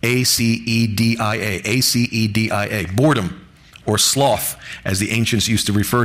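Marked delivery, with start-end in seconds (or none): 0.0-1.6 careful, slow letter-by-letter spelling of acedia. Shown as a demonstration. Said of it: "look up the word acedia".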